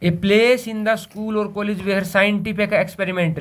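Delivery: slow, word-by-word read-out; slow dictation read. Shown as a demonstration. Teacher to students, reading the definition, slow dictation read. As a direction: read it out slowly so the class can write.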